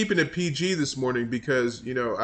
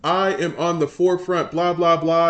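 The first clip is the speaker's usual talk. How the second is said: mock Jeffries voice; 2 semitones higher, 4 dB louder than usual. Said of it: "That's what he does".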